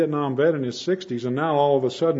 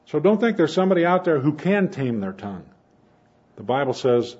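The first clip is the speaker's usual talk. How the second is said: ordinary talk, nothing marked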